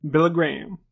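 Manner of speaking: put-on slow, drawn-out Southern preacher accent. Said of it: "in that thick Southern accent".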